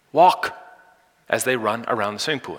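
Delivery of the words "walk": louder, higher poolside call; parental yell. Acted. Parents to kids running round the pool, yelling. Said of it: "what do their parents yell".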